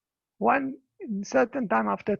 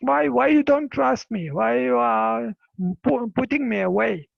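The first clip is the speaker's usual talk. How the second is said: louder, pleading why-questions; hurt protest; 6 dB louder than usual. Retold or imitated. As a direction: press them on why they won't trust her. Woman protesting to the religious leaders.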